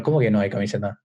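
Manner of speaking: acting stunned at being left out; disbelieving question. Told no uniform shirt. (pregunta incrédula, más grave)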